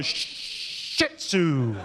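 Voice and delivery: slow, low, defeated admission; sheepish confession; deflated. Real, not acted. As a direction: admit it like a beaten man.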